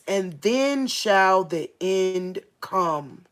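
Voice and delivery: slow, emphatic Bible reading; measured preacher reading from the Bible; scripture reading. Real, not acted. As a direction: read the verse out slowly and solemnly, drawing out the key words. Reads scripture aloud to listeners.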